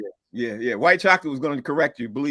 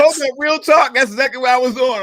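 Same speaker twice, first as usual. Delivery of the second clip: excited; 7 semitones higher, 6 dB louder than usual. Real, not acted. Excited laughing outburst.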